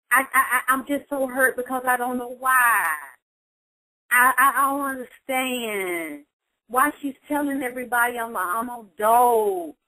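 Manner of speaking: a daughter near tears over her mother's lies; hurt, upset outburst. Retold or imitated. Counselor voicing a wounded daughter, pitch climbing as she breaks down.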